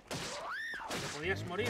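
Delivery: sarcastic sing-song wish; mock sweet voice. Real, not acted. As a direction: tease the enemy in a falsetto. Mocking the villager woman.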